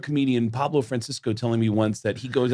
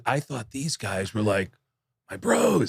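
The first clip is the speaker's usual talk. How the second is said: a hammed-up naive young comic; mock naive bro voice; slower than usual. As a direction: gush like a clueless newcomer.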